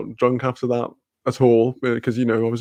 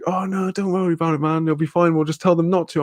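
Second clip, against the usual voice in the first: lightly voiced friend, a bit higher; breezy reassurance; 5 semitones higher than usual. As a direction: imitate a mate brushing off the worry. Voices friend brushing off the worry.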